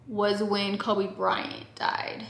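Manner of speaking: hushed. Real, not acted. Hushed mention of death.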